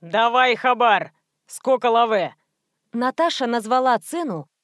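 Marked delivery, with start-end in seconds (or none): 0.0-2.4 slow, gruff street-thug demand. Acted. Thug customer demands the goods, slow and gruff. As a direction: drag out the demand like a gangster.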